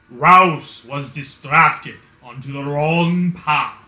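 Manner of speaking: lightly voiced solemn old master, slow in places; Kazan impression. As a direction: narrate the cutscene like a grave old master. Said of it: "do my impression of it here".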